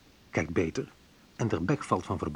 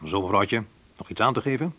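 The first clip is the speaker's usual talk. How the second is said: customs officer; 4 dB louder than usual. Pretend. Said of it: "Geuniformeerd en wel".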